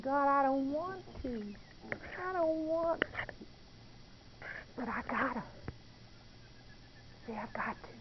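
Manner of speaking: a hushed, grudging giving-in; reluctant plea. Retold or imitated. Reluctant prayer retold to God.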